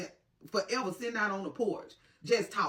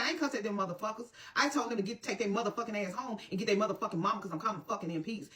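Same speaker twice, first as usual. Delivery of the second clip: fast, heated self-defence without shouting; retold angry rant; faster than usual. Mother answering her neighbour's question, fast retold angry rant. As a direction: rattle off an indignant denial. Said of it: "I was so fucking mad".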